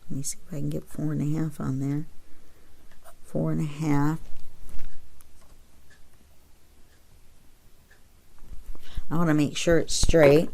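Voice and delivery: talking around a pencil held in teeth; pencil in mouth. Real, not acted. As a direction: speak with a pencil clamped in your mouth. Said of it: "I'm trying to talk with my pencil in my mouth".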